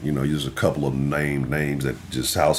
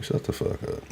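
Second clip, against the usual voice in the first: dismissive; 11 dB quieter than usual. Retold or imitated.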